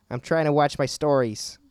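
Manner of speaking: slightly hammed-up grouchy rabbit. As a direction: lightly play a pestered cartoon grouch. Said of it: "here's my rabbit impression".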